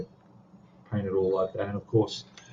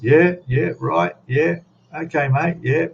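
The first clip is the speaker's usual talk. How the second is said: higher, louder quick yeahs, agreeing without understanding; bluffing agreement with drunk Scottish guys, higher and louder; clueless nodding along; 6 semitones higher, 3 dB louder, slower than usual. Retold or imitated. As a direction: fake it like you follow the thick accent, just nodding along. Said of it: "It's like, wow. Just".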